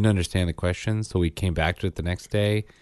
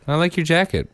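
put-on higher, offhand child's compliment; casual imitated kid; 10 semitones higher than usual. Dad showing how his son said it, real casual. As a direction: toss it off like a breezy little kid. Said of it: "And he said it real casual".

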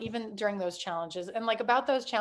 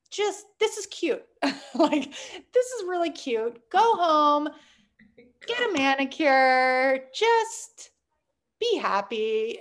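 higher, slow patronizing pat on the head; condescending brush-off; 4 semitones higher, 4 dB louder, slower than usual. Retold or imitated. Imitating the investor who tells her to go home and get a manicure, patronizing and slow. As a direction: talk down to her like her business is a hobby. Mentor dismissing her pitch.

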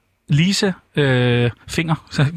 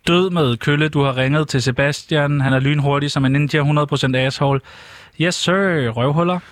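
cartoon hippo's answering-machine greeting; record a cocky cartoon message, slightly raised; Dolph; 3 semitones higher, slower than usual. Shown as a demonstration. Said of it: "indspille min telefonsvar, som ... Dolph". (tegnefilmsstemme på telefonsvarer)

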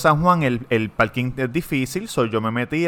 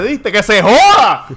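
high, loud, slow mock Spanish girlfriend; imitated girlfriend cheering the crash; girlfriend's voice; 8 semitones higher, 10 dB louder, slower than usual. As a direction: egg him on in her voice. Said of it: "la española dijo".

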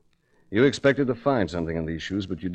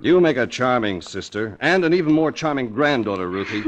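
mocking laugh; 5 semitones higher, 4 dB louder than usual. Detective mocks exposed impostor.

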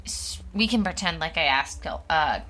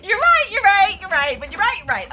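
laughing; 10 semitones higher, 5 dB louder than usual. Real, not acted. Laughing concession.

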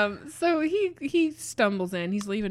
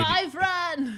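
high, loud monster shout; squeaky monster yell; 9 semitones higher, 3 dB louder than usual. Shown as a demonstration. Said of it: "That's the voice".

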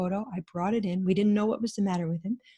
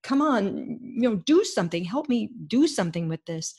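pleading annoyance; 3 semitones higher than usual. Retold or imitated. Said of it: "this plea and annoyance".

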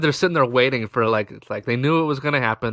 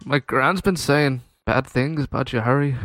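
badly faked Irish accent; horrible Irish accent; 4 semitones higher than usual. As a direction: attempt an Irish brogue and miss. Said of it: "That is a, a horrible Irish accent".

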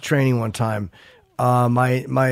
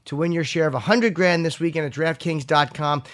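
measured sponsor read; 3 semitones higher than usual. Real, not acted. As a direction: sell it playfully, punching key phrases. Reads sponsor copy.

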